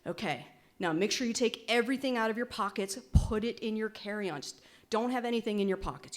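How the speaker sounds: a light touch of bossy mother hen; lightly instructing dad like a mother; motherly tone. Retold or imitated. Daughter mothering her dad at the checkpoint, lightly bossy. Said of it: "I say to him in my motherly tone".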